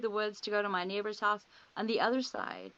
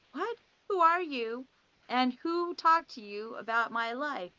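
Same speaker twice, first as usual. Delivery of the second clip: shocked disbelief; 4 semitones higher than usual. Retold or imitated. To the psychic who knows her life, retold shocked demand. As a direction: react as if caught off guard, demanding answers.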